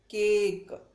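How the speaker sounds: केक with a long drawn ay; long a in cake. Shown as a demonstration. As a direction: stretch the vowel in केक. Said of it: "long sound में है". (लंबी ध्वनि में केक)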